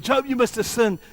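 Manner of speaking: high, loud accusing quote; acted accusation. Everybody accusing Job of sin, loud accusation. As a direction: raise pitch and volume as Job's accusers.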